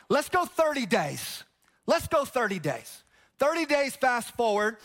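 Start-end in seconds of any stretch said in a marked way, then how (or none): 0.1-1.4 drawn out. Shown as a demonstration. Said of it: "You having fun yet?".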